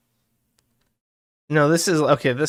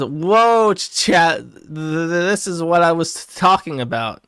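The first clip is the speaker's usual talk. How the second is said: excited Worski quote; 2 semitones higher than usual. Retold or imitated. Reading a chat log aloud, doing Worski's excited yell. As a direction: hype up chat like a streamer.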